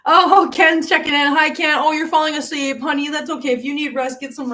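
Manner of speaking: light up at seeing him; cheerful welcome to a sleepy viewer; bright greeting. Real, not acted.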